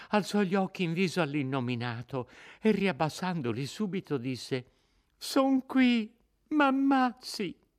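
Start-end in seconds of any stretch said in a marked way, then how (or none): 5.2-7.7 much higher, slow, broken surrender; begging for her life, very high; terrified plea. Acted. Lucia terrorizzata in ginocchio. (Lucia supplica, molto più alta e lenta)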